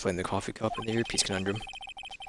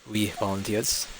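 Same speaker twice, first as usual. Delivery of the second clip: put-on French accent; slower than usual. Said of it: "my French accent".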